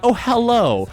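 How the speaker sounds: high, courteous hello; very polite. Acted. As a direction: return a greeting extra politely. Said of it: "I'm talking very polite".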